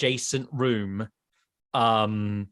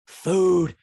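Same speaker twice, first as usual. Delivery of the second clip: high, loud creature shriek; frenzied, hungry kobold yell; ravenous kobold; 12 semitones higher, 6 dB louder, much slower than usual. Acted. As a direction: screech it like a crazed little monster. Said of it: "then sees you".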